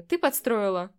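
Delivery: loud accusing outburst. A narrator's reading. Man loudly accuses the witch of scheming. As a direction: throw the accusation at her.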